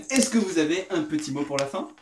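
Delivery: ordinary talk, nothing marked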